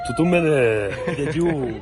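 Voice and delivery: excited shout. Real, not acted. Sliding down, calling out.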